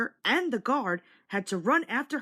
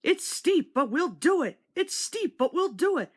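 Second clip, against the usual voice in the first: much higher, rhythmic chugging chant; puffing together; 7 semitones higher, 3 dB louder than usual. A narrator's reading. Both engines climbing the long hill, high puffing chant. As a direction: chug it like two engines climbing. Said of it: "the two engines puffed together".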